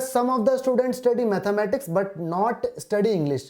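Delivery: reading each word out very slowly; slow dictation. Shown as a demonstration. Teacher reading the question aloud to students, very slowly. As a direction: spell the question out word by word for the class.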